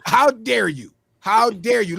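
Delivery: loud, repeated mock outrage; hammed-up indignant how dare you. Acted outraged quote.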